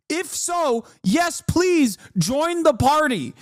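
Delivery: slow, high mock invitation; sarcastic welcome. Mocking the party, high slow sarcastic invite. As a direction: drag it out like a cheesy welcome.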